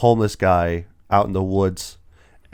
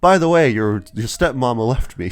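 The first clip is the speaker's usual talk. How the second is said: nonchalant; 4 semitones higher, 4 dB louder than usual. Retold or imitated. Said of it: "he goes like".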